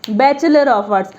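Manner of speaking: Bachelor of Arts said very slowly, word by word; teacher stretching each word; slow careful read-out. Shown as a demonstration. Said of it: "अगला हमने लिखा हुआ Bachelor of Arts".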